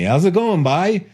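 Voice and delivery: playful mock Newfoundland lilt. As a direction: imitate a friendly Newfoundlander. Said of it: "what Brad leans over and says".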